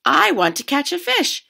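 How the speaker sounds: put-on high, loud hopeful girl; eager kid. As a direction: call out hopefully. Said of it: "and said".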